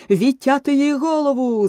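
high, loud scream of an order; screaming at full throat. Acted. Queen screams for Alice's head, full-throated. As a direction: scream it with all your lungs. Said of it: "зарепетувала королева на все горло".

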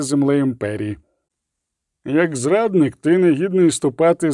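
grave formal death sentence; solemn judge pronouncing doom. Acted. Head of tribunal sentencing the traitor Skellen, grave. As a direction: intone each clause like law.

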